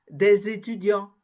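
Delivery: étudiants ending on a nasal vowel, no T or S; étudiants clearly shown without its last consonants; silent T and S. Shown as a demonstration. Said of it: "on ne prononce ni le T ni le S".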